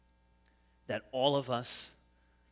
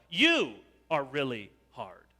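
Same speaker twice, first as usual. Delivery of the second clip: louder, blaming tone with YOU leaned on; accusing grumble; 6 dB louder than usual. Shown as a demonstration. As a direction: point the complaint at God. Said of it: "A grumble says to God".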